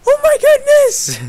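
hammed-up falsetto shock; Bad Boy Halo impression. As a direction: squeal it in a cartoonish shocked falsetto. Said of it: "Just like".

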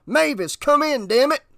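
high-pitched, impatient demand; exasperated radio call. Acted. Officer trying to wake the dispatcher by radio, exasperated. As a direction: raise your pitch sharply, demanding an answer.

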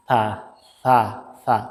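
সা with the tongue tip on the upper teeth and a light breath, like English th in thin; Arabic tha sound in সা, soft and airy. Shown as a demonstration. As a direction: breathe out gently through সা, tongue touching the teeth. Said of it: "প্রচণ্ড বাতাস বের হবে".

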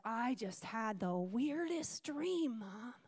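put-on a slow, hushed voice like a boy just waking; sleepy child. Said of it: "And he said".

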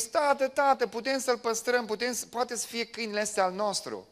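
lightly voiced pleading children; high, mild child's plea; children begging. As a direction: beg dad like little kids. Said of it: "copiii au zis".

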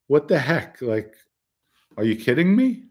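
mock-indignant, rising in pitch; retold exasperated confrontation; indignant retelling. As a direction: act out an incredulous telling-off. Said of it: "Vinny's ripping into me".

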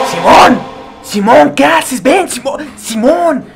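high, loud calling out; calling the cat. Pretend. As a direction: call the cat to come back. Llamando al gato Simón. (llamando al gato, agudo y fuerte)

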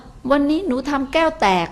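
put-on child confessing. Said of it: "แต่ถ้าลูกบอกว่า".

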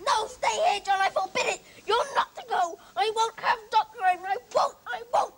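loud, furious, demanding; stubborn loud tantrum; angry refusal. Acted. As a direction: forbid it like a spoiled young master. Boy refuses doctor, tantrum.

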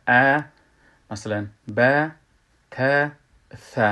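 ا، ب، ت، ث each with a front "a", as in "cat"; light open vowels. Shown as a demonstration. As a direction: model ا، ب، ت، ث loudly, one by one, with thin open vowels. (فتحهٔ باریک، شمرده)

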